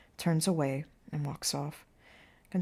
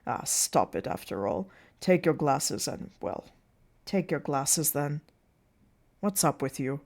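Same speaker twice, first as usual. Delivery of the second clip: lightly lowered, slowed voice of a circus manager; exasperated circus manager; 3 semitones lower than usual. Acted. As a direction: chivvy the guests along, slightly put out. Plays Burkett urging the guests.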